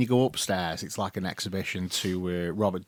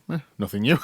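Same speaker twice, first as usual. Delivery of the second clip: laughing sarcasm; 3 dB louder, faster than usual. Retold or imitated. Work's sarcastic reply.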